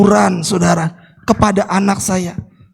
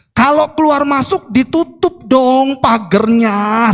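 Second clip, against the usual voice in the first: slow, higher-pitched retold scolding; mildly angry, raised tone; 5 semitones higher than usual. Father scolding the helper about the gate, raised annoyed tone. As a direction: drag out the annoyed complaint. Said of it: "Saya mulai agak tinggi nadanya".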